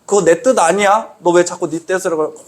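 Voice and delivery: lightly imitated reprimand; mild retold scolding. Jesus correcting one who follows their own will, mildly scolding. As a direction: chide someone who keeps straying, without shouting. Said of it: "예수님은 혼내세요".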